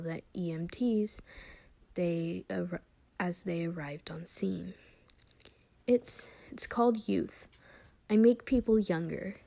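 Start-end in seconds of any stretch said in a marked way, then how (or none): 5.9-9.4 put-on frightened little boy. Child answers shakily.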